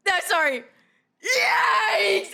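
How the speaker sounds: high, drawn-out "yikes"; cringing yelp. Real, not acted. Streamer reacting to the statement being read, cringing yelp. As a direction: cry out in cringing disbelief.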